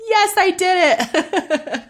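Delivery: high, slow, squeaky little victory cry; mock triumphant. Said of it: "I'm like".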